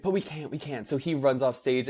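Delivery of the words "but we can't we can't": soft quote. Retold or imitated. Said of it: "she's like".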